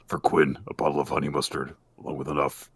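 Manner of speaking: ominous villain reading out the terms; restrained creepy game-master voice; put-on horror announcer; Jigsaw. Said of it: "would you have the more appropriate, uh, Jigsaw voice".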